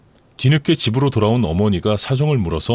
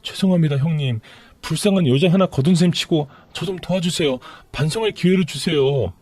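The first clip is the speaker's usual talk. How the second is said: higher, tearful-sounding plea from the mistress; pleading mistress; 5 semitones higher than usual. Acted. Mistress begging her lover's sister for help, pleading.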